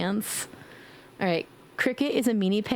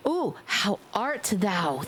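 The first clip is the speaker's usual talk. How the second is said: mock old-fashioned; 3 semitones lower, slower than usual. Shown as a demonstration. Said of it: "we just gonna say".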